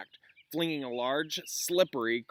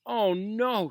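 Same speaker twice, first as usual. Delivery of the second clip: lightly voiced Hermione; 9 semitones higher, 6 dB louder than usual. Hermione protests.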